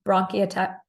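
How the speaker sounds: tongue tripping over a new retainer; wearing a retainer. Real, not acted. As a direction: stumble on "bronchiata-" through a retainer. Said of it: "I just got my new retainer installed, so I'm tripping over my word".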